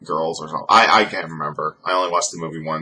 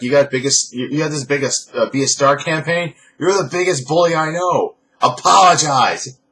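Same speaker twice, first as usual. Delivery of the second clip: high, raised, accusing rant; mock C M Punk; 7 semitones higher, 4 dB louder than usual. To Vince McMahon, a lightly voiced accusing rant. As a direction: call out the boss, demanding an apology. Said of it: "That was old C M Punk to Vince McMahon".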